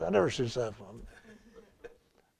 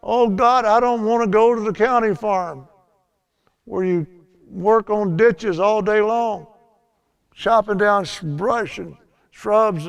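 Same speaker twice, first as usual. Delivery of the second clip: mock cry to God; 3 semitones higher, 3 dB louder than usual. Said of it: "cried out to God".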